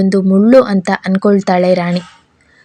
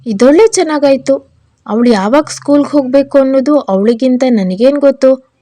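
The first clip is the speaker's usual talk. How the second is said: higher-pitched, mildly sarcastic comeback; irritated retort; 4 semitones higher than usual. Acted. Wife answers husband about waking the child for school, mildly irritated retort. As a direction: throw it back at him, pitched up.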